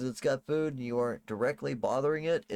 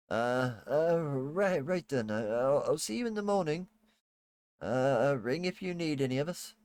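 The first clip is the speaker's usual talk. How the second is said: timid maid; 4 semitones higher than usual. Acted. GM plays the maid again.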